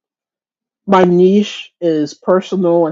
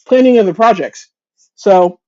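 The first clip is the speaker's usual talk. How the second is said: talking through hiccups; speaking while hiccuping; 4 dB louder than usual. Real, not acted. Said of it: "I have the hiccups again".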